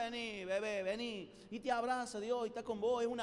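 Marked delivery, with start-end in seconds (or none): 0.0-1.3 tender welcome. Retold or imitated. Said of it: "Dios, un mocazo te manda".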